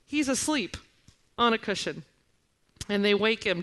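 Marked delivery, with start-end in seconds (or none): 0.0-2.0 a touch of exasperated disbelief; perturbed. Acted. Preacher imagines Mark grumbling at Jesus sleeping, mildly perturbed. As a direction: mildly put out, starting high. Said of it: "being very perturbed at this event".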